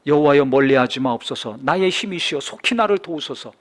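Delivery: loud, declaiming psalm recitation; solemn scripture reading. Acted. Preacher reading Psalm 22 to congregation, solemn loud declamation.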